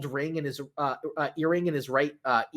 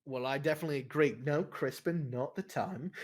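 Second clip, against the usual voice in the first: quick dismissal; 4 semitones lower, 8 dB quieter than usual. Acted.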